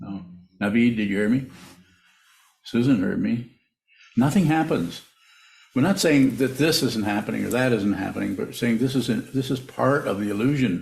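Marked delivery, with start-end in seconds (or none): 4.2-5.0 very loud, raised voice, called out. Speaker addresses the people on Zoom, saying it really loud. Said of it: "I'm going to say it really loud".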